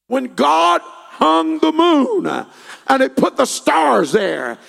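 loud, driving pulpit delivery with punched words; fervent revival preacher in full cry; full-force preaching. Real, not acted. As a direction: preach it hard, building to a ringing declaration.

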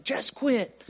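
high mock yell, right in someone's face; imitated yelling. Drill instructor in the recruit's face, mock yelling. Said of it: "he's in my face yelling".

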